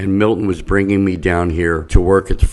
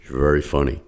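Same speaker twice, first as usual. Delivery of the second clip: a slightly lower, softer take on the line; Joey Bishop deep voice; 4 semitones lower, 5 dB quieter, faster than usual. Retold or imitated. Retelling a compliment from a comic, lightly lower. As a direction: drop the voice a touch for the old comic. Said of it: "Joey Bishop in a deep voice goes".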